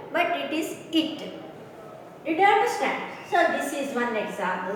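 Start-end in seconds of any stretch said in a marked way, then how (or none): 0.3-0.5 "it" with a short ih vowel; "it" as the correct short-vowel reading; short i in hit. Shown as a demonstration. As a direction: say "it" short, ending on the t. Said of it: "not height, but is hit".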